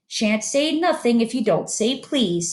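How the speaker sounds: lilting, teasing sing-song; annoying sing-song. Acted. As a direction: needle him in a sing-song. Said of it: "in an annoying sing-song voice".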